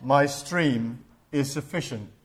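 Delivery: a river generously inviting the little fish to drink; Father Thames. Retold or imitated. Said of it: "And Father Thames said".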